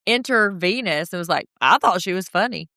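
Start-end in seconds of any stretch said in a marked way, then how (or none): 1.6-2.7 rising higher and higher; building outrage. Retold or imitated. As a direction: build from calm to shrill. Quoting Venus getting heated.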